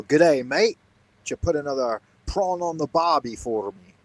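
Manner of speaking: hammed-up Australian greeting, pitch leaping on mate; a jokey Aussie voice for the viewer; mock Australian accent. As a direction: play a cartoon Australian accent. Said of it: "An Australian".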